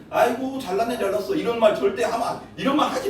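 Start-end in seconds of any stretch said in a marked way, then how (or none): 0.1-1.3 sarcastic. Retold or imitated. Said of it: "사람 앞에 비아냥거리는".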